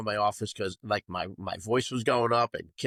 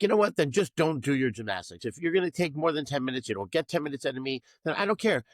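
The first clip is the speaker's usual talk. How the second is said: raised, exasperated scolding of gymnasts; lost temper; 4 semitones higher than usual. Retold or imitated. Coach losing it with gymnasts on floor, frustrated scolding. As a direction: snap at the girls, pitch jumping up. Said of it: "So I kinda lost it".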